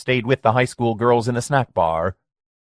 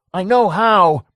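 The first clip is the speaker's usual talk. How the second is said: loud, much higher yell; 10 semitones higher, 6 dB louder, slower than usual. A narrator's reading. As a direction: yell it through the window. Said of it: "Mike yelled".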